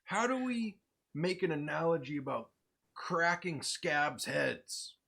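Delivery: high, loud, slow and laughing; laughing marketing exec. Retold or imitated. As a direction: laugh through a pushy pitch.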